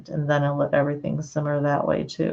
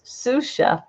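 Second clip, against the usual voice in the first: ordinary delivery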